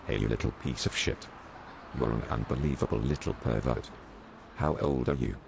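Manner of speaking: low, gruff mock cop voice; policeman screaming. A narrator's reading. Angry policeman bawling out a small boy, low and gruff. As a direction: bark at the kid like an angry cop. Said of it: "The policeman started to scream at the child".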